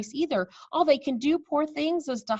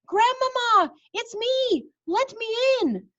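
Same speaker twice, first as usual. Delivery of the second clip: high, loud urgent calls; boy at the door begging grandmother; shouting; 14 semitones higher, 5 dB louder, slower than usual. Acted. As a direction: plead loudly to be let in. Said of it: "I shouted".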